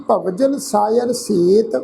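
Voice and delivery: slow phrase coming to rest on a long ਸੇਤ; pause after set. Shown as a demonstration. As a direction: draw out ਸੇਤ, then stop. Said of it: "ਸੇਤ ਸ਼ਬਦ ਤੋਂ ਬਾਅਦ ਵਿਸ਼ਰਾਮ ਚਿੰਨ੍ਹ ਲਗਾਵਾਂਗੇ".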